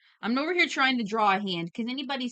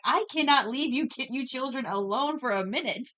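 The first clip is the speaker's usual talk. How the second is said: mock-exasperated parent, pitched up; exasperated scolding; 5 semitones higher than usual. Streamer mimicking the moderator scolding the chat, mock exasperated. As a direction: imitate a fed-up scolding, voice raised in pitch.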